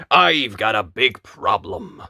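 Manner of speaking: lightly voiced woodcutter with a big problem; troubled woodcutter. A narrator's reading.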